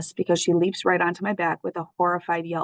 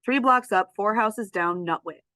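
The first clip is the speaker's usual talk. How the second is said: grudging repeat; 3 semitones higher than usual. Acted. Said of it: "Fine, whatever".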